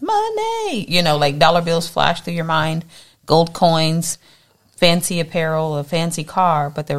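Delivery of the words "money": high, eager "Money"; eager gasp. Retold or imitated. Everyone hearing riches, blurting out "Money" high and eager. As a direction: blurt it out like greed lights up. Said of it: "everybody starts".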